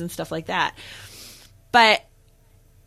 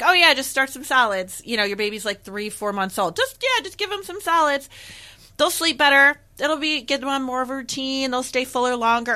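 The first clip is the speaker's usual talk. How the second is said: higher-pitched mock-casual advice; nonchalant advice-giver; 5 semitones higher than usual. People casually pushing solids on a new parent, mock nonchalant. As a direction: imitate people breezily handing out advice. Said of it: "are so nonchalant about it".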